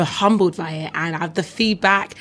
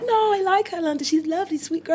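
mock American accent; 10 semitones higher, faster than usual. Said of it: "And he was like".

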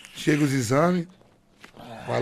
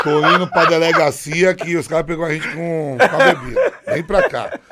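laughing through the retold call; can't hold back the laugh while telling it; 4 dB louder than usual. Rindo ao contar a ligação. (contando rindo da prisão)

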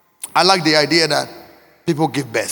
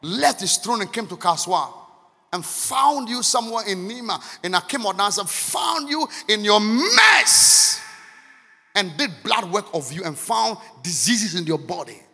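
hushed tender preaching; 2 semitones lower, 7 dB quieter than usual. Real, not acted. Preacher telling of God's love, soft hush. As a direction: draw them close in a hush.

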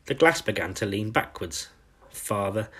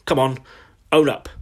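louder, higher, forceful bursts; roared order; 4 semitones higher, 6 dB louder than usual. A narrator's reading. Headmistress ordering the culprit to confess, roaring. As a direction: order them sharply in a storybook roar. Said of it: "she roared".

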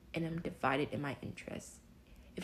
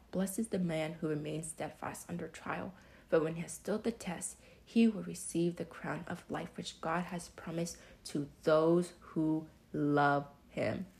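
scripture reading. Shown as a demonstration. That's in James twelve.

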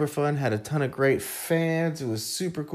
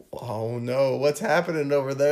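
rising into a loud, high, slowed panic; mock alarm; 6 semitones higher, 4 dB louder than usual. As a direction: build to hammed-up dread, drawing out the end. Acts out mock fear of demons.

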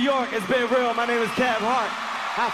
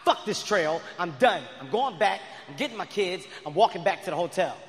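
fed-up rant; 4 semitones lower than usual. Retold or imitated. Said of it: "It's at a point where I'm pissed".

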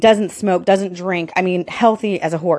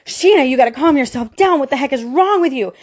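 higher-pitched frantic self-scolding; exasperated, agitated telling-off, pitched up; retold freaking out; 5 semitones higher than usual. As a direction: replay trying to talk yourself out of panic. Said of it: "I'm freaking out and I'm driving".

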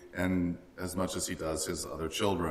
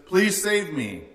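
pleading; 8 semitones higher, 3 dB louder, slower than usual. Retold or imitated. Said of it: "We're crying out to Jesus".

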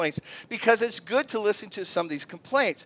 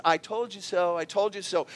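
told-you-so. Retold or imitated. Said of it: "That's sarcasm".

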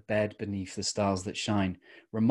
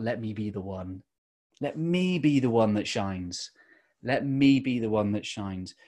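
"Let me be the one": lean on "me"; stress on me. Shown as a demonstration. A man showing how he once read the lyric, stress on "me". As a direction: push "me" in "Let me be the one that shines" as if it is all about you. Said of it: "the emphasis looked about".

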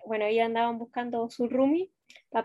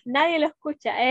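laughing; 2 semitones higher, 4 dB louder than usual. Real, not acted. Teasing about the podcast.

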